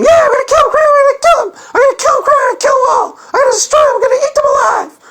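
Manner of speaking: high, loud, squeaky mock-girl voice; Stephanie imitation. Host imitates Stephanie vowing to destroy opponent, high squeaky glee. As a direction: chirp the threats like a gleeful little killer. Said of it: "That's my Stephanie imitation".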